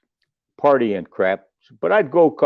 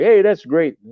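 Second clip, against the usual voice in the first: higher, louder mock enthusiasm; faked interest; 6 semitones higher, 4 dB louder than usual. Humoring a singer's karate moves with faked enthusiasm. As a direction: pretend to be impressed. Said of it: "trying to act like I'm interested".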